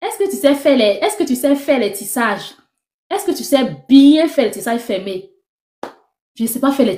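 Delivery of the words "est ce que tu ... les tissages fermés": imitated Ivorian accent, pitched up at first. Customer quizzing a supposed hairdresser about her skills, Ivorian accent. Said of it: "avec l'accent ivoirien bien prononcé".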